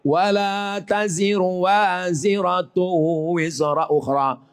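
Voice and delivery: slow intoned verse; Quran recitation. Acted. Preacher quoting scripture, slow intoned recitation. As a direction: chant it slowly.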